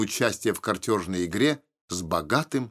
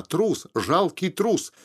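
higher, jeering taunt; mocking; 7 semitones higher, much slower than usual. A narrator's reading. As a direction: taunt him with scorn, pitched high. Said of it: "с издёвкой повторяла она". (с издёвкой, высоко)

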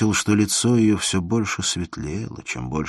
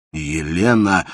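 louder cry of her name; 6 dB louder, slower than usual. Acted. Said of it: "вскрикнул Инсаров".

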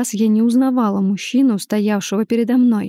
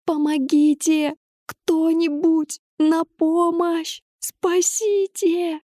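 higher and higher, slow drawn-out calls; cry for help; 7 semitones higher, much slower than usual. A narrator's reading. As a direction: call for help, stretching each word. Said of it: "громко закричала". (протяжный крик о помощи, всё выше)

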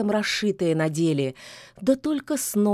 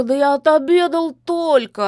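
higher, louder, whining excuse; the fat cat wriggles out of work; protesting cat; 7 semitones higher, 7 dB louder than usual. A narrator's reading. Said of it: "отпирался как мог огромный чёрный кот". (кот отнекивается, выше и громче)

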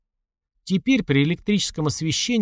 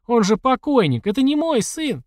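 frantic cry; 10 semitones higher than usual. A narrator's reading. Terrified mother screaming at corpse.

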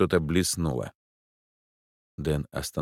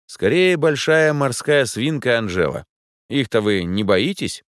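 loudly; 6 semitones higher, 6 dB louder than usual. A narrator's reading. Dan speaks loudly to reassure the client. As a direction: say it loud for the client. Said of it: "добавил громко".

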